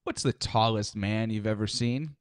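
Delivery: lightly voiced drawling old-timer; old man in rocking chair. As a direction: ask it like a porch storyteller. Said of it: "You sound like an old man in a rocking chair".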